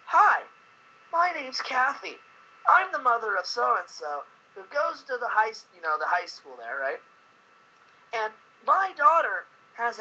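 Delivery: mock commercial voice of a school mom; imitating a radio ad mom. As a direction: sell it like a sweet mother in a campaign ad. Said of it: "This commercial comes on and it says".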